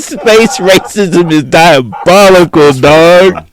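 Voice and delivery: high, slow, laughing through it. Real, not acted. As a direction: laugh the words out. Laughing at the joke.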